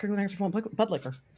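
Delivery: name rattled off quickly. Unsure how to pronounce a name, so saying the name fast. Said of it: "You just say it fast".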